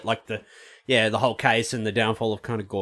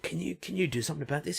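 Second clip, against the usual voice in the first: usher; 4 semitones higher, 12 dB quieter, faster than usual. Retold or imitated. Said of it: "He's like".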